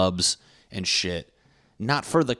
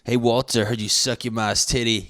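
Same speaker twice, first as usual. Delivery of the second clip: mock bully taunt; 3 semitones higher, 5 dB louder than usual. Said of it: "younger kid getting picked on".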